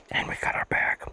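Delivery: whispering with mouth full. Real, not acted. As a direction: talk around a bite of food. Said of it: "Sorry for talking with my mouth full".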